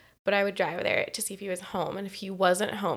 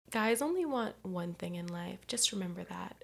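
dad's hushed advice; 6 dB quieter than usual. Retold or imitated. Dad warns daughter about guys, soft and hushed. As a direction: drop it quietly like sage advice. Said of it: "he goes".

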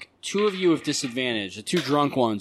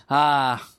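pitched up, snooty society lady; high haughty lady voice; 5 semitones higher, 4 dB louder than usual. Acted. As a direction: talk down to them in a high voice. GM voices the woman NPC.

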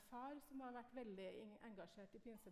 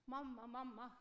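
put-on child calling loudly for mom; 6 dB louder than usual. Little girl calling her mom into the room, loud. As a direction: shout it into the room to reach mom. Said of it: "for hun ropte inn da".

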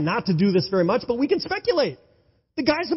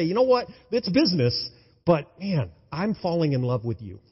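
tender confession; 2 semitones lower than usual. Acted. Boaz voiced, falling for Ruth.

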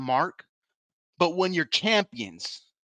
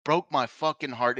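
heartbroken. Real, not acted. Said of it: "what broke a few days ago".

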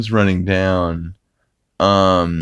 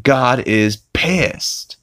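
Brian impression; 5 semitones higher, much slower than usual. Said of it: "he's like".

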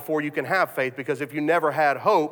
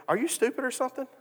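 higher, fast, blunt challenge; exasperated wife; 7 semitones higher, 6 dB quieter, faster than usual. Retold or imitated. Wife snapping at her husband over his doubt, higher and fast. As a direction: fire it at him like a fed-up wife. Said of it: "she looks at me and she goes".

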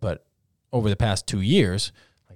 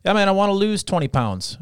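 casual stranger talk; 9 semitones higher, 3 dB louder than usual. Retold or imitated. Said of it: "you're like".

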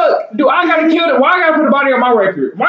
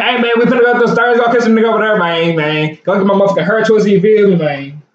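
put-on lower, heavy Saint Louis accent like when drunk; thick Saint Louis accent; 4 semitones lower than usual. Shown as a demonstration. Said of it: "that's how I talk whenever I'm drunk".

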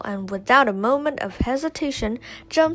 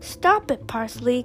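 crying out; 3 dB louder than usual. Acted. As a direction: cry out in protest. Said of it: "Kella cries".

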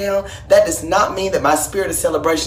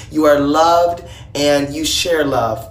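tender wish; 5 semitones lower, slower than usual. Acted. Shangela telling Atlanta she is loved, slow and tender. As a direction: say it gently from the heart. Heartfelt birthday message.

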